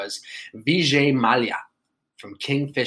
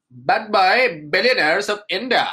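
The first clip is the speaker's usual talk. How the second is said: excited; 9 semitones higher, 6 dB louder than usual. Real, not acted. Title repeated louder.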